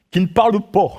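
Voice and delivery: light Norman accent on "pas". Shown as a demonstration. Preacher showing his Norman accent to the congregation, lightly Norman. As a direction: say "pas" rounded toward "po", Norman style. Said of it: "c'est mon accent normand".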